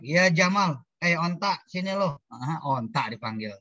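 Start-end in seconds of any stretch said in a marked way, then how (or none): 0.0-2.2 mock wrong call. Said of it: "Jangan dibaca pendek".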